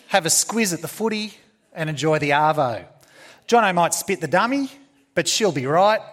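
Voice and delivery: lightly voiced chatty Aussie, pitched a little up; a touch of matey Aussie patter; Aussie slang speaker. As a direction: reel off the slang like a local greeting a newcomer. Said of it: "an Aussie says to a newly arrived person".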